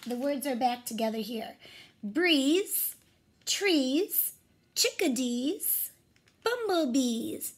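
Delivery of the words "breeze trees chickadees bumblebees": each word stretched with a lifted end; clear rhyming readout. Shown as a demonstration. Teacher rereads the rhyming words for the class, clearly. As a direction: read the rhymes slowly for the class. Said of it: "Let me say those one more time".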